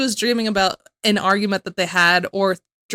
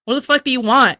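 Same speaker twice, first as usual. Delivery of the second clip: louder mock angry retort; 4 semitones higher, 5 dB louder, faster than usual. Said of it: "getting mad".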